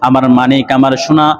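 imitated tearful calling, stretched out; mock wailing mother. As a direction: chant a mother's cry for her missing child. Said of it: "চিৎকার মেরে কান্না করতেছে".

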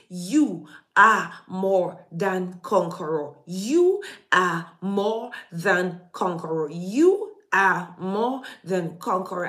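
preacher proclaiming identity; solemn declaration. Acted. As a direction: declare it slowly over them. Slow declaration from the pulpit.

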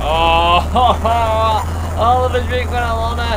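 loud laughing outburst. Real, not acted. Laughing at the clip.

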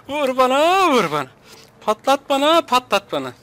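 lightly mocked catchphrase, rising then dropping; Kerimcan Durmaz. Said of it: "Kerim Can Durmaz modu oldu". (hafif abartılı taklit, önce tiz)

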